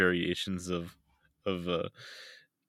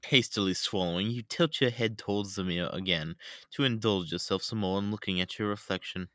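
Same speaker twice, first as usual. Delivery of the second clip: put-on British accent. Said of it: "every British person is the Queen".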